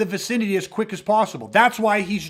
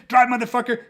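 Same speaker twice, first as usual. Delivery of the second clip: barked carjacker order; 4 semitones higher, 4 dB louder than usual. Retold or imitated. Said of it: "the second he jumped in".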